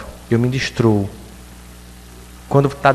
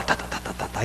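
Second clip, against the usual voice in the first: muttered mind chatter; 11 dB quieter than usual. Pretend.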